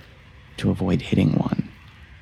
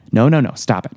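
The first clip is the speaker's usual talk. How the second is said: scolding self; 4 semitones higher, 3 dB louder, faster than usual. Real, not acted. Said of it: "I need to refocus".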